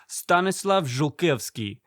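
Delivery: name said with a light Slavic accent; slow, careful Slavic pronunciation. Shown as a demonstration. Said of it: "immediately into a Slavic accent".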